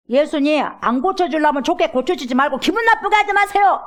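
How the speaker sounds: indignant complaint. Retold or imitated. Father grumbling at Jesus, indignant.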